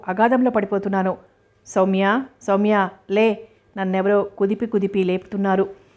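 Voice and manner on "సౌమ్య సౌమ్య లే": slow call from far away, heard through a dream; distant call. Acted. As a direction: call her name slowly as if from far off. Husband wakes her from nightmare. (కలలో దూరం నుండి నెమ్మదిగా పిలుపు)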